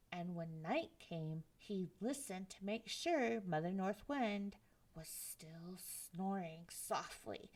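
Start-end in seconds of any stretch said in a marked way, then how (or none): 5.0-7.5 hush, don't wake her; sneaky whisper. Acted. Narrator tiptoeing past sleeping mother, whispering.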